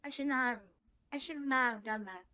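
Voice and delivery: talking through a mouthful; words round a bite of food; mouth full. Real, not acted. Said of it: "Now I got food in my mouth".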